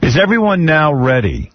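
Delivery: mock-solemn showman's announcement; mock-grand announcer. Host readies the room for the lie test, mock-grand announcer. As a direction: build suspense like a game-show host.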